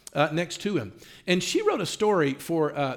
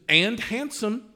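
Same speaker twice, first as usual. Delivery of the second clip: higher-pitched mock-sarcastic addition; 6 semitones higher, much slower than usual. Wife answering the caller's description of her husband, sarcastic. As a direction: imitate a pointed, sarcastic agreement.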